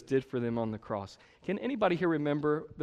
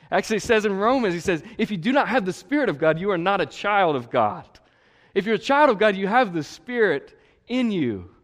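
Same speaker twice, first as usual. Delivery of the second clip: fervent preaching; 6 semitones higher, 7 dB louder than usual. Acted. Preaching at full force.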